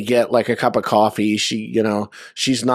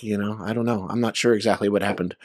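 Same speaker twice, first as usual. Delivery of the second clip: mock innocent; 3 semitones lower, 6 dB quieter, faster than usual. Feigning ignorance to the table.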